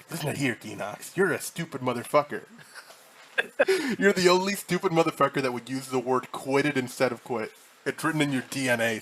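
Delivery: Bryan Cranston voice. Retold or imitated. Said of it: "the Bryan Cranston, like, fucking, uh, automated voice".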